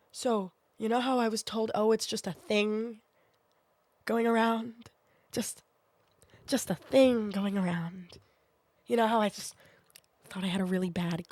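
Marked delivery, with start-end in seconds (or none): 1.7-8.2 slow, drawn-out quote trailing toward a whisper; slow sarcastic echo of a dismissal; mocking quote. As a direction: stretch it out slowly, pointedly. Mocks what she was told earlier.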